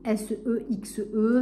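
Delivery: coyly spelling the word letter by letter; spelled out. Real, not acted. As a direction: spell it out slowly, as if embarrassed to say it. (épelé lentement, lettre par lettre, l'air gêné)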